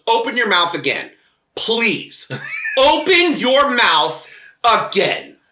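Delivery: slow, threatening warning; menacing warning. Retold or imitated. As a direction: dare him to speak. Mother warns principal.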